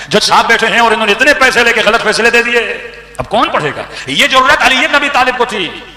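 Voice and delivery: preaching at full force. Acted. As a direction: proclaim it to the whole hall. Climax of the majlis story.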